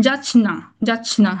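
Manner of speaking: যাচ না said slowly, "jach-na", with a clear n; n sound after ch. Shown as a demonstration. Teacher showing the rule, n sound in যাচ না. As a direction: break যাচ না into slow syllables ending in na. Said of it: "উচ্চারণটা ওনারা বলছেন যে নয়ের মতো".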